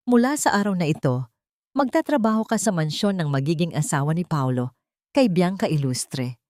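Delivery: a touch of a judge handing down a sentence; lightly voiced cold matriarch, last name slowed; stern sentence. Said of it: "ang kanyang boses ay tila isang hatol".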